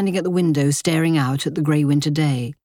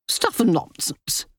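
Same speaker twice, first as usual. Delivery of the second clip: slow, scornful dowager voice; imperious wealthy widow; 5 semitones higher than usual. Acted. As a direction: dismiss it with lofty scorn. Dowager dismisses Richard.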